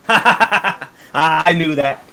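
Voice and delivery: big, loud ha-ha-ha into the line; hearty acted laugh. Axe man laughs off the tension with player, loud and jovial. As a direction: laugh it off loudly, as if in on the joke.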